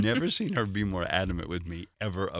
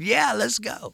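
retold eager yes, much higher and louder; 14 semitones higher, 6 dB louder, slower than usual. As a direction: jump at the chance, thrilled. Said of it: "I said".

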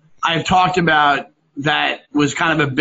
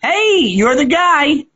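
excited fan; 7 semitones higher, much slower than usual. Retold or imitated. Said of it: "they go".

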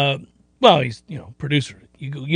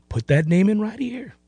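playful sing-song muttering; a goofy voice while adding a name; silly recruiting voice; 2 semitones higher, 5 dB quieter than usual. Retold or imitated. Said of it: "And I say it in that voice".

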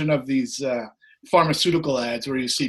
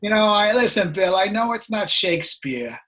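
put-on a light New York accent, pitched up; lightly imitating a New York music boss; hint of a New York accent, coaxing; 4 semitones higher than usual. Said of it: "He's got this New York accent".

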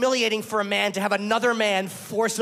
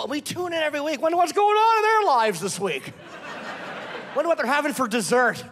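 laughing; 7 semitones higher than usual. Acted. Mocking fascinated TV viewers.

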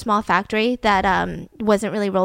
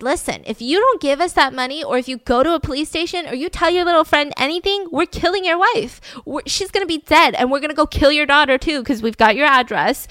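raised-pitch retold threat; threatening; 5 semitones higher, 3 dB louder than usual. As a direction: lay down the threat as the gang, emphatically. Gang threatens hostage's family.

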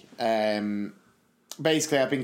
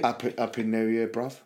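Cockney John; 3 semitones lower than usual. Retold or imitated. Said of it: "I give Cockney John a bell".

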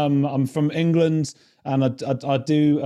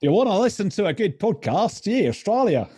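mock Australian accent, higher; playful Australian accent demo; 9 semitones higher than usual. Shown as a demonstration. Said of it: "That was more Australian".

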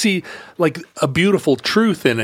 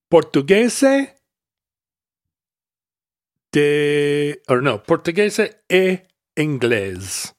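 attempted Portuguese; slower than usual. Shown as a demonstration. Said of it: "my Portuguese accent is terrible".

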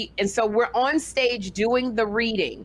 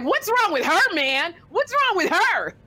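mock baffled; 8 semitones higher than usual. Imitating the comic baffled by her outburst. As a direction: act puzzled and put-upon. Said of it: "John was like".

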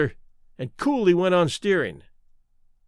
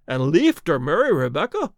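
horrified. A narrator's reading. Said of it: "with unspeakable horror in his voice".

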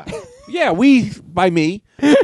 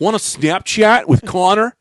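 slow, higher bro voice; white guy voice; 7 semitones higher, slower than usual. Acted. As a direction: play a preppy dude. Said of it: "the idea of the white guys".

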